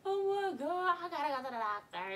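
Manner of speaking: high, loud panicked plea; panicking. Retold or imitated. Scared high girl begging her mama about the doctor. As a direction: cry out in fear. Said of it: "I'm like".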